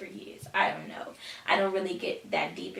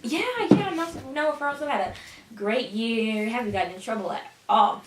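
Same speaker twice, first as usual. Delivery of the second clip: innocent act. Retold or imitated. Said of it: "I was like".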